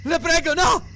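grido acuto e implorante; urlo. A narrator's reading. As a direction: supplicare urlando, con voce molto alta. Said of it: "urlò Ariel". (urlare una supplica spaventata)

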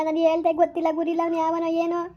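bitter words breaking into sobs; a wronged mother weeping as she blames him; crying complaint. Acted. Mother blames the son-in-law.

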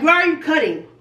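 high, mock New York challenge; imitating a New Yorker asking why they're cutting; New York guy voice. Retelling the New York guy at the airport, mock accent. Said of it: "But that's how he sounded".

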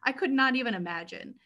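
high, fast, tearful apology; embarrassed, fighting back tears; teary apology. Real, not acted. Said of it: "I always get teary-eyed".

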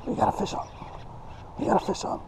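hushed, urgent whisper as the fish bites; excited whisper. Real, not acted. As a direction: keep it to a thrilled whisper.

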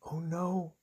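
soft, dropping into a whisper; quiet storybook dismay; hushed dread. Acted. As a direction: whisper the awful news to young listeners. Hushed dread after toy breaks.

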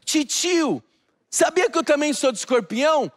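a hint of a sweet little niece; little girl voice. Eight-year-old niece voiced. (voz levemente infantil da sobrinha de oito anos)

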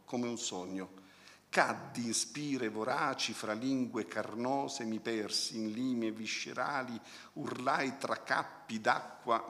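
measured recitation with slowed line endings; poem reading. Acted. Critic quoting an experimental poem to the audience, measured recitation. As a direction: read the verse out, lingering on phrases.

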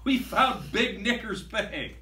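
high, eager pirate announcement; delighted discovery cry; excited captain. Acted. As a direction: point it out to the crew with glee. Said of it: "The captain shouts".

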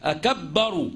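أكبر with the ب pressed double as أكبّر; أكبر said with a doubled ب. Shown as a demonstration. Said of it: "لا".

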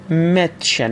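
متشن with an open "eh" vowel; a-umlaut as e. Shown as a demonstration. Teacher gives an example of a-umlaut, متشن with "eh". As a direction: model متشن, the ä said as "eh".

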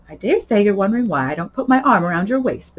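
a hint of a chummy Duchess; chatty Duchess. Duchess sidling up to Alice, lightly chummy.

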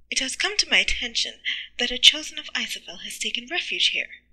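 loud, formal priestly pronouncement. Acted. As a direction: project it with authority. High priest's announcement in story.

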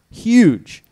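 sudden high loud shout; excited shout. Real, not acted. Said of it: "I'm sorry".

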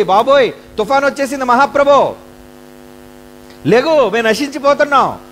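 high, loud alarmed pleading; panicked wake-up call. Retold or imitated. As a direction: shake him awake in a panic. Waking Jesus in storm.

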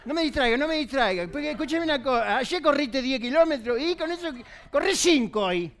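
ordinary delivery

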